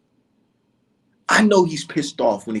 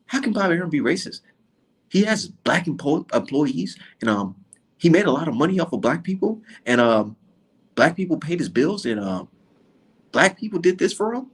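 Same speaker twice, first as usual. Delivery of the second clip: mocking critics. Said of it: "They said".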